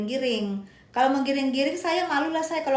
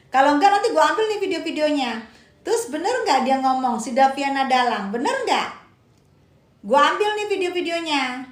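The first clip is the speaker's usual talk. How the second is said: louder, higher, insistent challenge; heated challenge; 3 semitones higher, 4 dB louder than usual. Real, not acted. Live host challenging a commenter over the videos, heated challenge. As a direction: push each question hard at the accuser.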